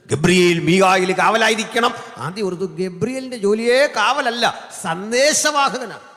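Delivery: loud, high-pitched exhortation; full-force preaching. Real, not acted. Preacher correcting the flock on Gabriel's job, full-force preaching. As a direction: raise the voice and drive it home.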